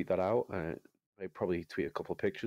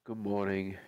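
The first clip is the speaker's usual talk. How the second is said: drawn-out host greeting; 3 semitones higher, slower than usual. Acted. Podcast host's opening greeting.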